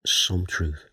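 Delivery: "some" pushed out and leaning on it; stress on some. Shown as a demonstration. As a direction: hit the word "some" in "some truth". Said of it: "But I emphasize the word".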